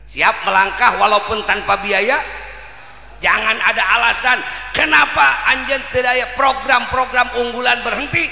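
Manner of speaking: high, loud rousing exhortation; preaching at full force. Acted. Preacher urging the congregation not to lose to a dog, loud and high. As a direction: drive the crowd to act on trust.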